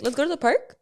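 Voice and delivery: "Let's go to the park" with a questioning rise at the end; unsure. Shown as a demonstration. Friend demonstrating the unsure tone, rising uncertain. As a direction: ask it like you're not sure. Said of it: "you're unsure".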